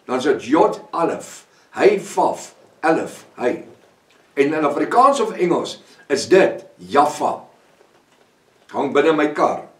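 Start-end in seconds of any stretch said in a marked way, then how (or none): 0.0-3.7 slow, letter by letter: "Yod Alef Hey Vaf Alef Hey", each letter name set apart; spelling in Hebrew. Shown as a demonstration. Preacher spells the Hebrew name for the congregation, slow and deliberate. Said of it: "En dan sit die Arabies die twee alefs in".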